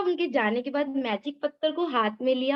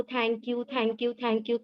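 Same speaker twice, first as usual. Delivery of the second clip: grateful thank you; 4 dB quieter, much slower than usual. Retold or imitated. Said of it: "बोला परमात्मा को".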